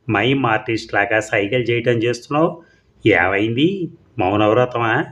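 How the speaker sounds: a touch of surprise, rising at the end; aunt puzzled by her niece's silence; mildly surprised aunt. Acted. Aunt teasing her silent niece, mildly surprised. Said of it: "కాస్త ఆశ్చర్యంగా".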